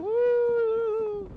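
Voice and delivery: very high, drawn-out "woo"; long, piercing creature hoot; imitated creature call. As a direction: hoot loudly like a far-off giant beast. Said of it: "and it's like".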